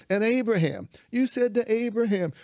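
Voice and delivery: high, loud impassioned pleading; retold indictment. Man reminding God what he said to Abraham, loud high indignant plea. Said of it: "I start indicting God".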